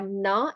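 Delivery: "na" said with a vowel after the n; na, the Hindi letter way; wrong na sound. Shown as a demonstration. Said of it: "the sound is not".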